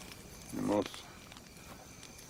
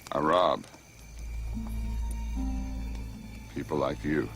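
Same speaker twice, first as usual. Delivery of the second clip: menacing; 12 semitones lower than usual. Acted. Outlaw reveals himself.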